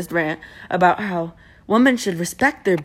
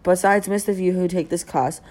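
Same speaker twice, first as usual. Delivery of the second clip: reading aloud in mock British; British accent. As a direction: put on a British accent to read a post. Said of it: "read everything on Instagram in a British accent".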